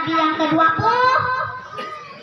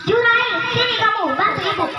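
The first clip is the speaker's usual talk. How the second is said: raised calling voice of a mother; 5 semitones higher than usual. Acted. Mother calling Jurais the third time, calling out. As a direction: call him once more.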